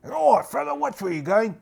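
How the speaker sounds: high, loud gruff-friendly challenge; cultist guard. Acted. Cultists bump into Quackbane, calling out high and loud. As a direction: stop a stranger, half friendly.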